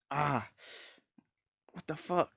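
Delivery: high-pitched yelp of pain at ordinary volume; mock pained cry. Freed reacting to his severed arm, mock pained cry. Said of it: "he's screaming in pain".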